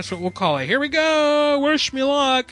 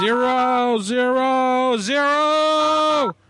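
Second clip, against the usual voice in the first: screaming zero; 9 semitones higher, much slower than usual. Acted. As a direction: scream it at the machine.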